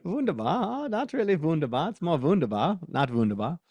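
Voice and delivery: Wunderbar sung out high with a rising lilt; high, playful rising Wunderbar; teasing the German pronunciation; mock German. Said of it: "The German".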